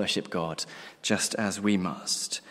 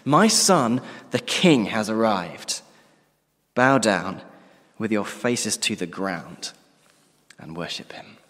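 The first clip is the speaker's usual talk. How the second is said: lightly voiced divine proclamation, strong start falling to hushed reverence; a hint of God's thunder, easing away; God the Father thundering; slower than usual. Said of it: "thunders out and shakes the heavenly places".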